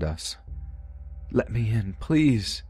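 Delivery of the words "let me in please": put-on high, pleading child's cry; crying plea. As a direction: beg high and breaking. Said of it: "our brother's crying words".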